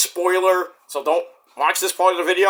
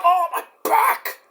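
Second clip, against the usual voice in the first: higher, slow groaning complaint; mock pain; 11 semitones higher, slower than usual. Sore wrestler dad getting up, slow mock groan.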